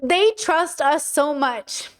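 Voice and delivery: slow, close to tears; moved almost to crying; tearful. Real, not acted. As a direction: hold back tears, slowly. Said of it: "Oh, I'm gonna cry".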